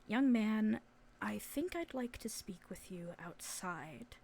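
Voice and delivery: hushed, measured request; soft-spoken authority; quiet stern chaperone. Acted. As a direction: drop to a near whisper, politely firm. Chaperone quietly takes boy aside.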